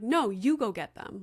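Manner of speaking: retold defiant little refusal; lightly imitated cheeky kid; bossy child. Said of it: "Like, the way he said it".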